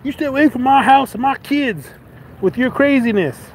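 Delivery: mock angry neighbor. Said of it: "walking back to his house".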